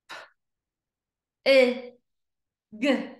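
P, i, g as separate letter sounds; long gaps between P, i and g; sounded out slowly. Shown as a demonstration. Teacher pointing to each dot, P-i-g sounded out. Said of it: "read each word slow".

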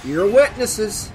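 slow, stern lawman; a sheriff laying down the law. A narrator's reading. Sheriff addressing the girls.

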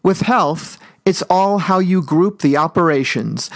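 measured, deliberate poetry recital; poem reading. Acted. Poet reciting to an audience about a hospital wait, measured poem reading. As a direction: read it as verse, phrase by phrase.

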